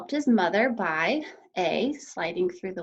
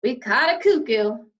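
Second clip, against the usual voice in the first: louder mocking cop; jeering; 2 semitones higher, 7 dB louder than usual. A narrator's reading. Policeman loudly mocks Missus Lambchop. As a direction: crow over catching a cuckoo. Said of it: "said the second policeman".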